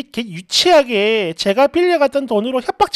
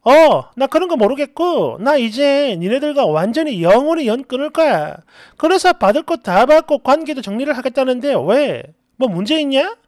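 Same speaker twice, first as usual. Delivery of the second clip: acted cool dismissal; cold, hard voice. Friend announces she is cutting ties, coldly dismissive. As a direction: cut a friend off with mild coldness. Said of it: "세상 냉정한 목소리로".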